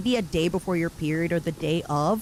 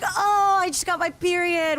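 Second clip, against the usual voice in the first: retold realization; 10 semitones higher than usual. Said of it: "and I'm like".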